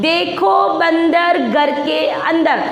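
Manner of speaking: slow, word-by-word reading; model reading aloud. Shown as a demonstration. Teacher leading pupils in reading from the book, slow and measured. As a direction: read it out slowly for children to repeat. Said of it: "पढ़ो देखें".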